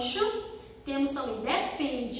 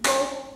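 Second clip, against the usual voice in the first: "Tambor" split into two loud syllables, TAM-BOR; 6 dB louder than usual. Shown as a demonstration. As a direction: clap out "Tambor" beat by beat. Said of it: "uma dica fácil pra vocês separar é fazer assim".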